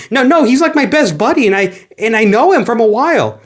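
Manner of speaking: a touch of a cheerful little fan; eager Tails. Retold or imitated. Tails popping up to greet Sonic, lightly high eager voice. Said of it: "Tails answering the question".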